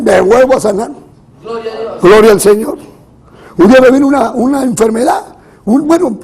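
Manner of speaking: forceful, insistent sermon voice; preaching. Real, not acted. Preacher warns congregation against the prosperity gospel, preaching. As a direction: press the point on the congregation in punchy phrases.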